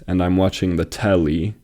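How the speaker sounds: "telly" stressed on "te", with "lly" left light; stress on first syllable. Shown as a demonstration. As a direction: hit the "te" of "telly". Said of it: "te is the part of the word that's receiving that emphasis".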